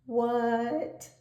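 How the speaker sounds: high innocent what; Froggy's what. A narrator's reading. Froggy answers the librarian, a high innocent what.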